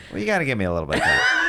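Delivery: fast mocking shout. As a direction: rattle it off in a yelling parody. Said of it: "and you go".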